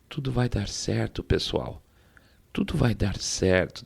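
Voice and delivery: vovô bonzinho. Retold or imitated. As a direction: imitate a sweet old granddad quietly reassuring everyone. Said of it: "ele fala com vozinha assim". (vozinha baixinha de vovô bonzinho)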